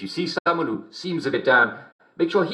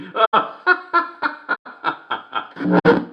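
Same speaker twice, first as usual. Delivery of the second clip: high laugh; 8 semitones higher than usual. Acted. Host laughs at own joke.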